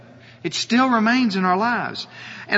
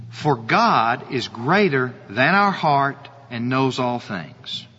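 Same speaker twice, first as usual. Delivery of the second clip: slow, lower, hushed verse reading; reading scripture aloud; 6 semitones lower, slower than usual. Shown as a demonstration. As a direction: read the verse slowly and reverently, lower in pitch. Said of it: "Look at continuing in the verse".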